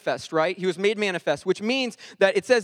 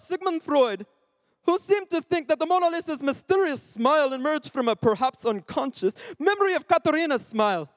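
higher-pitched reading, shaky attempt at Italian accent; 5 semitones higher than usual. Shown as a demonstration. Speaker reading Mona Lisa history aloud, attempted Italian accent. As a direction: keep up a put-on Italian accent while reading. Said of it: "reading this in a Italian accent".

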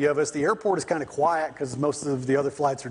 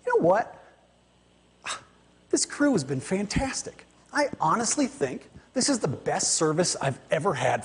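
cheerful praise. Retold or imitated. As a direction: lightly imitate the friendly flyer gushing about the crew.

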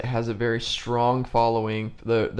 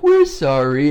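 louder mock-sorry imitation; lightly hammed-up fake regret; half-assed apology; 5 dB louder, slower than usual. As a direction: put on a token, insincere apology. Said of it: "a half-assed apology".

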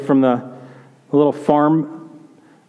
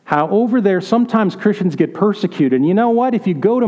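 worried grandma; 3 semitones higher than usual. Retold or imitated. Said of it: "she's like".

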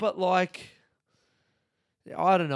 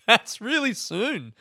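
slow, loud, higher dopey voice; mocking clueless lady; 8 semitones higher, 6 dB louder, slower than usual. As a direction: ham up the airline clerk's vacant surprise. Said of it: "She just goes".

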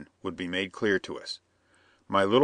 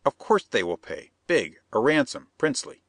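higher, insistent foreign plotter; scheming Perona; 5 semitones higher than usual. Acted. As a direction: press the bandit, sly and eager.

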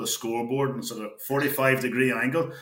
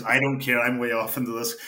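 louder, firmer and quicker, brushing it off; defiant retort; 4 dB louder than usual. Retold or imitated. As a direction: snap it back with a bit more volume. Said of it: "I didn't say it in that, I says".

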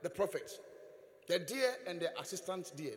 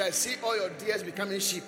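proclaimed blessing; 5 dB louder than usual. Shown as a demonstration. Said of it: "I say".

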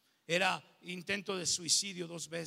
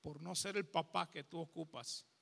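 father's tender apology; 6 dB quieter than usual. Retold or imitated. Father asking his son for forgiveness, soft and tender. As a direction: plead forgiveness gently. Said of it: "Y dice".

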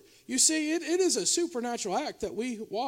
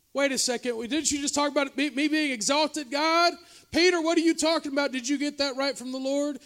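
mock indignant protest; 5 semitones higher, 6 dB louder than usual. Mock protest to God and Peter.

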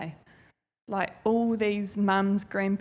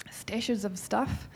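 whispered, softer and slow; hushed whisper; 6 dB quieter, much slower than usual. Acted. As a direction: drop to a secret whisper. Hushed aside about hidden stashes.

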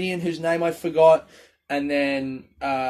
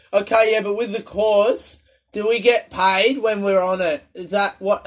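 higher, louder questioning voice; curious attendee; 6 semitones higher, 3 dB louder than usual. Retold or imitated. Attendee asking the official about course payments, higher questioning voice. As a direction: ask it like a keen course attendee.

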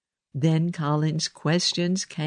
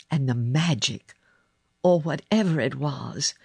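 usual speaking voice

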